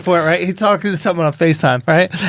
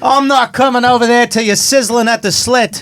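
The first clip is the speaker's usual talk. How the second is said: mock shout; 5 semitones higher than usual. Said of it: "And then he goes".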